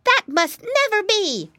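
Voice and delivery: put-on high, loud piggy-boy protest; emphatic exclamation. A narrator's reading. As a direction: declare it high and loud like a brave piglet. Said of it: "exclaimed the little piggy boy".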